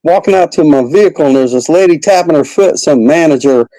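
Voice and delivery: high-pitched hammed-up country redneck accent; Robbie the redneck. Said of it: "uh, country accent".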